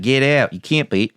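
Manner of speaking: put-on Boston accent. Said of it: "The Boston accent".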